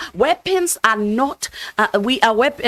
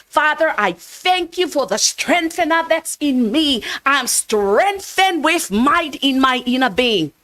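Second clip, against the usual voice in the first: assured thanks, a touch higher at the start; confident prayer; 5 semitones higher than usual. Shown as a demonstration. Pastor demonstrating a faith-filled prayer, lightly confident. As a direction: thank God as if it's already done. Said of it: "See the difference?".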